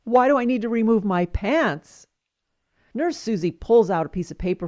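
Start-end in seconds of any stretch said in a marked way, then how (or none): 0.0-2.1 halting, confused stammer; acted stammer rising into a baffled question. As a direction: stutter on the first sounds, then ask, bewildered. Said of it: "Chuck stammers".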